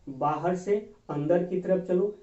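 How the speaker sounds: "बाहर से अंदर की तरफ चलो" धीरे-धीरे, "से" पर ज़ोर देकर; slow, emphatic repeat. Shown as a demonstration. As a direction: slowly spell out the rule, leaning on से. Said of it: "क्या करना है कि बाहर से अंदर की तरफ चलो". (धीमे, ज़ोर देकर दोहराना)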